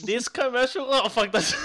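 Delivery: laughing through a put-on Asian accent. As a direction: attempt an Asian accent while cracking up. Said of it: "I can't do an Asian accent".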